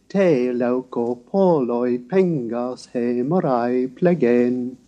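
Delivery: slow, measured reading of ancient Greek verse; Greek verse recital. Shown as a demonstration. Lecturer reciting Sophocles to the class, slow and measured. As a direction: recite Sophocles line by line, slowly. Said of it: "Here are the lines from the Ajax of Sophocles".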